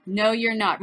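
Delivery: ordinary talk, nothing marked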